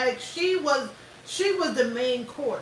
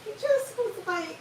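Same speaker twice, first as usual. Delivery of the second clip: laughing while talking; 9 semitones higher than usual. Real, not acted. Laughing through the line.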